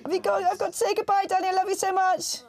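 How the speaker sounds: emotional goodbye. Real, not acted. Tearful phone goodbye.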